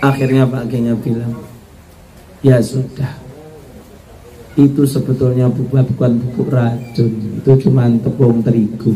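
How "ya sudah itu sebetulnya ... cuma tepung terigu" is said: put-on lower, calm old teacher explaining; wise Kiai. The Kiai tells the daughter-in-law it was only flour, lower and calm.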